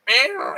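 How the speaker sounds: high cat meow. Shown as a demonstration. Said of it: "I still can't do high-pitched noises like meow".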